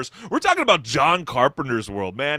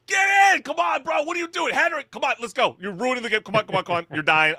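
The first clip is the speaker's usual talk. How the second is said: high-pitched squad-mate yell, easing toward normal; mock frantic yelling; 10 semitones higher, faster than usual. Gamer yelling at a trolling teammate mid-game, frantic mock yell. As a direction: play an exasperated gamer yelling at the team, starting very high. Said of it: "where someone yells".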